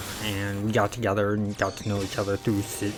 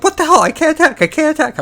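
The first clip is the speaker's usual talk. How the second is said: high, loud imitation of a frustrated friend; hammed-up shrieked complaint; mock outraged yelling; 9 dB louder, faster than usual. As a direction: yell it like a panicking gamer. Mimics friend's panic when drained.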